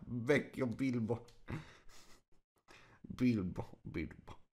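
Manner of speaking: puzzling it out aloud, half to himself; muttering to himself. A narrator's reading. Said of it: "eccolo borbottare e ridacchiare tra sé e sé".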